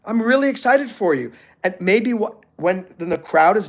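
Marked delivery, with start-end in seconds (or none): 0.0-1.3 mock-cheerful praise pitched higher; high, bright congratulations. A hint of cheer to the new graduate. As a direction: gush a bit over her news. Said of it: "So I'm just gonna say".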